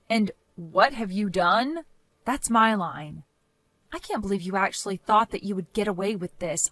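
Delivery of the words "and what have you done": cold retort. Acted. Sister-in-law throws the question back, cold. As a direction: turn her words back on her.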